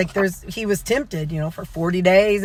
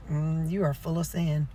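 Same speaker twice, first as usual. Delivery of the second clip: softly spoken hidden meaning; quiet, knowing Southern aside; hushed mock pity; 2 semitones lower, 7 dB quieter than usual. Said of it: "that's how Southern people say".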